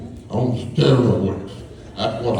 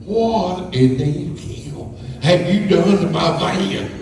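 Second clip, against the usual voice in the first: Chad; 7 semitones higher, slower than usual. Retold or imitated. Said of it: "He said".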